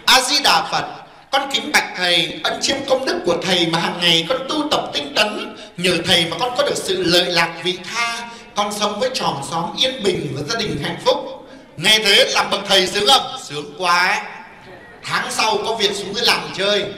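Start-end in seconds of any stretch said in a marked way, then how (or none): 0.1-11.5 softer, low reverent address; devout greeting. Retold or imitated. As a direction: imitate a pious laywoman paying respects. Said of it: "bà vái nhà thầy như này".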